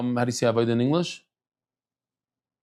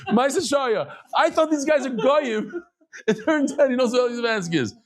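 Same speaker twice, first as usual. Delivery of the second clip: much higher, excited storytelling; can't believe how it turned out; delighted amazement; 10 semitones higher than usual. Real, not acted. The rabbi telling his class the lift story, high and delighted.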